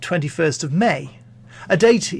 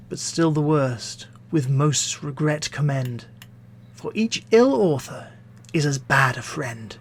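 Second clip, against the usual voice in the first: poetry recitation. Acted. Reading Pope's stanza on critics to listeners, poetry recitation. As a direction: declaim it in measured phrases, settling on the final maxim. Reads second stanza aloud.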